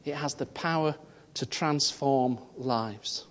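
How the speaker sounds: It has the power, pause, to transform lives, very slow with weight on transform; slow emphatic repeat. Shown as a demonstration. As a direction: lean on transform and slow right down. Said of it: "repeats the phrase slower".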